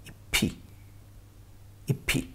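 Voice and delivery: इप्पी as i-phi, with an aspirated p; correct carry-over pronunciation. Shown as a demonstration. Teacher repeating how it will be pronounced, correct carry-over pronunciation. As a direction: release the p of इप्पी into the vowel. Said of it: "it will be pronounced like".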